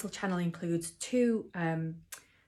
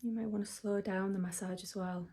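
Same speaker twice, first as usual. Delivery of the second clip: soft guidance; 6 dB quieter than usual. Real, not acted. Guiding during the massage minute.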